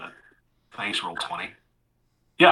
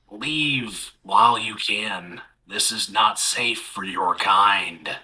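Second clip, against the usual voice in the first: gravelly whisper; much slower than usual. Acted. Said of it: "starts to whisper in this kinda gravelly voice".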